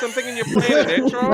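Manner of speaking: talking through a mouthful of carrots; chewing while talking; mouth full. Real, not acted. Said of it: "I'm freaking shoving my mouthful of carrots".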